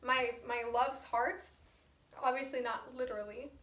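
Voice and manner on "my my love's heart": raised, indignant retelling of her anger; mock-angry retelling. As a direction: confront the thief, half-acted. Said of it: "So now she's mad at Helena".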